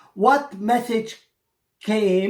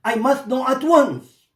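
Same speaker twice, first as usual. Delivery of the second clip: pressing, raised demand; urgent raised cry; 5 semitones higher, 3 dB louder than usual. Acted. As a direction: insist on knowing now. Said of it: "She cried".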